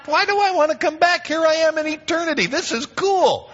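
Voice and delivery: very high comic complaining voice; hammed-up reluctant dead man; whiny Lazarus.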